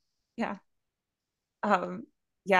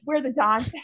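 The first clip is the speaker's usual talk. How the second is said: higher, lightly mimicked twelve-year-olds; excited kids; 4 semitones higher than usual. Twelve-year-olds announce their pool game, playfully boastful. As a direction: crow it like kids playing their hero. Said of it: "They're like".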